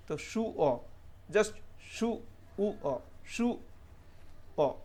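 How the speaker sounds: "शू ओ" pulled apart slowly into शू and ओ; slow syllable breakdown. Shown as a demonstration. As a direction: break it into parts for learners. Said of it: "एस को शॉ पढ़ा मैंने". (धीरे धीरे टुकड़ों में)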